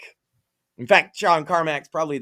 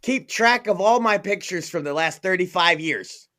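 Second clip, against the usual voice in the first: raised-pitch mock demand; demanding boomer; 4 semitones higher than usual. Boomer handing over old gadget, mock demand. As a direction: imitate an unreasonable customer giving orders. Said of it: "they'll be like".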